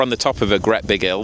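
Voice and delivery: "hill" said as 'ill with no h sound; Lancashire h-dropping. Shown as a demonstration. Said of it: "which is how we say it in Lancashire".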